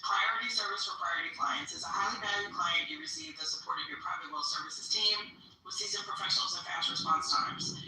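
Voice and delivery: reading the text out, brisk; reading aloud. Shown as a demonstration. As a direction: read the brochure out to the group. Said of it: "So this says".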